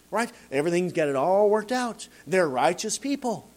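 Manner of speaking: ordinary talk, nothing marked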